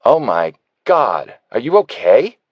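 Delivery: loud, slow alarmed call; London yells from the kitchen in alarm; yelling from the kitchen. A narrator's reading. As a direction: call out from the next room, startled. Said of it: "and then she yells".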